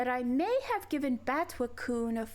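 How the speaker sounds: put-on sweet, cutesy girlish voice. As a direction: play it cute and sugary. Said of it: "two minutes of Wu voice".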